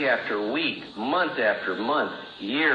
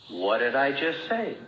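slow, mock puzzled; drawn-out sarcastic question; sarcastic deflecting. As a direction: feign not knowing, to needle. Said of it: "sarcastic routine".

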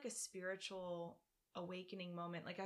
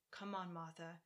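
lightly voiced Southern accent. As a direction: imitate a mother-in-law's Southern accent. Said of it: "She has a Southern accent".

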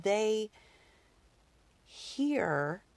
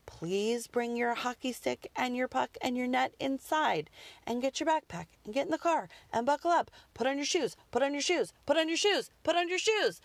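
rising, mock yell to the kids, building higher; calling the kids in, getting more exasperated; retold yelling at kids; 6 semitones higher than usual. Mom calling kids from garage door, mock yell growing higher. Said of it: "I was yelling this morning".

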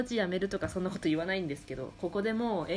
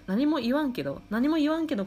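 rising indignation; 7 semitones higher, 5 dB louder than usual. Real, not acted. Building indignant complaint.

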